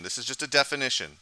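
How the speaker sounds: weight on definition; stress on definition. Shown as a demonstration. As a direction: lean on the word definition. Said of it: "emphasis on the word definition".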